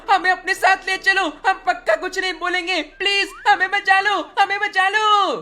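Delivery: put-on a scared little boy begging on the phone; begging kid voice. Kid begging big brother on the phone to save him, pleading.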